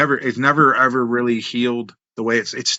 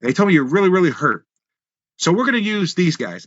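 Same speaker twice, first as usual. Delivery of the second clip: quoting Randy Hale; 7 semitones higher than usual. Retold or imitated. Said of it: "and he goes".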